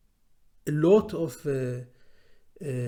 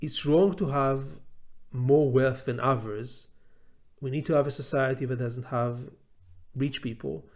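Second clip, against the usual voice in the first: blunt. Retold or imitated. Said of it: "in a very blunt way".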